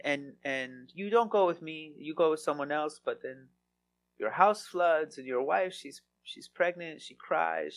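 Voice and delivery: lightly voiced Israeli contractor, half-threatening; mild Israeli accent, pressuring the narrator. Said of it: "Be like".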